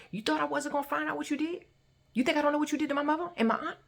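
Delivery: high-pitched, controlled accusing questions; intense calm rage. Retold or imitated. Confronting him about mother and aunt, intense controlled rage. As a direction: hold the stare and press each question upward. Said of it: "just this intense. I am staring at him".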